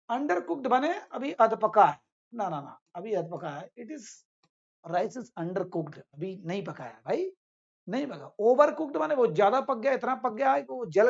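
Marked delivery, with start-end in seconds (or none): 3.8-6.0 very slow, spaced-out English; slow model sentence; slow example sentence. Shown as a demonstration. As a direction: spell it out for learners. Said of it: "example sentence for students".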